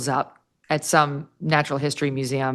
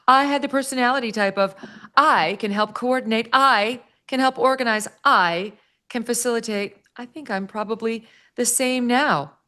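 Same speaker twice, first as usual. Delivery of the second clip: higher, lightly mocking quote; mock Meghan voice; 5 semitones higher than usual. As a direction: lightly mimic a self-satisfied celebrity.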